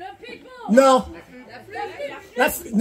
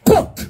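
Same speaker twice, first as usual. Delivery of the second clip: thud noise. Pretend. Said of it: "il fait Poc!".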